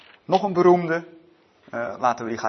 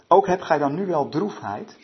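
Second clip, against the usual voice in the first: scripture reading; 2 semitones higher, 5 dB louder than usual. A narrator's reading.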